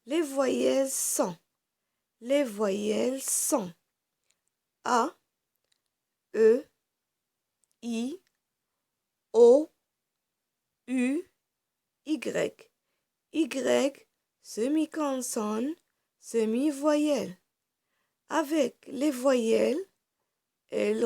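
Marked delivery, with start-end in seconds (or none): 0.1-3.7 slow, loud, spelled-out teacher recital. Shown as a demonstration. Teacher reciting to young pupils, loud and slow. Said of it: "Je vais répéter les voyelles". 4.8-17.4 each vowel called out loud and separate; loud vowel drill. Shown as a demonstration. Teacher drilling the vowels to children, loud and separate. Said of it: "Je vais répéter les voyelles".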